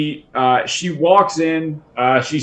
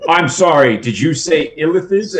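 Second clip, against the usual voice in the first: incredulous; 3 semitones higher than usual. Acted. NPC incredulous again.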